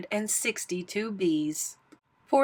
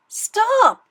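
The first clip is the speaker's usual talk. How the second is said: sharp scream, much higher and louder; 13 semitones higher, 8 dB louder than usual. A narrator's reading. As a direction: yell it to halt the moose. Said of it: "screamed his guest".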